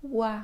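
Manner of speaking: wa said alone and clearly; sound demo. Shown as a demonstration. Teacher models the wa sound for the learner. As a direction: model the sound wa for the combined letters O and I. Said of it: "former le son".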